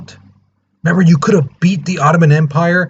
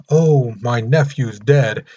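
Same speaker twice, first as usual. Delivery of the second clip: mock grief; slower than usual. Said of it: "it's not like he was wallowing".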